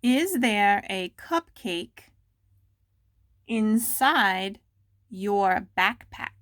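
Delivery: slow, deliberate dictation of a question; careful slow dictation to students. Shown as a demonstration. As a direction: spell it out word by word for the class. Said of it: "Go slow".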